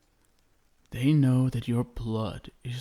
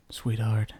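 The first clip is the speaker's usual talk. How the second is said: ordinary talk, nothing marked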